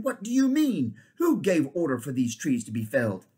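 loud angry outburst; king roars at the rat; thundered. Acted. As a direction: thunder the word in outrage. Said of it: "thundered Tyrion".

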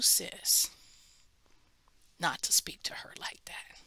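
soft unvoiced whisper of correction; whispered rebuke. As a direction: whisper it gently to her. Gently confronting the mother.

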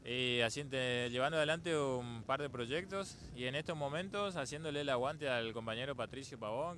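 speaking up. Real, not acted. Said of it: "Un poquito más fuerte".

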